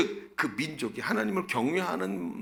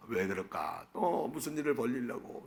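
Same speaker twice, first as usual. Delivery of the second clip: soft, low grumble to oneself; wary inner voice; 3 semitones lower, 8 dB quieter than usual. Retold or imitated. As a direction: voice a husband's worried thought under the breath. Husband's wary thought, voiced quietly. (혼잣말하듯 나직이 걱정하는 말투)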